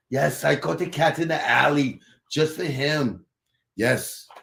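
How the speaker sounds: lightly voiced sly cook; a sneaky aside, lightly voiced; translated restaurant worker. Cook whispering about serving cat, lightly voiced. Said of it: "you put it in Chinese".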